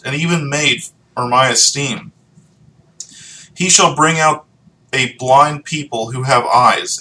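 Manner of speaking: solemn public reading of scripture. Acted. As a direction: read the verses aloud to the congregation. Reads Isaiah passage aloud.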